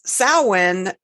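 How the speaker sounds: "Samhain" said SOW-in, silent m and h; SOW-in pronunciation. Shown as a demonstration. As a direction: say "Samhain" as SOW-in, drawn out slowly. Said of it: "but it's also pronounced".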